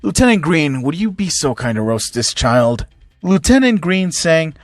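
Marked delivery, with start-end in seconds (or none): 0.0-2.9 villain general sinking lower as he threatens; cool threat, dropping low at the end; menacing General Black. Acted. General Black threatens a child, coolly menacing.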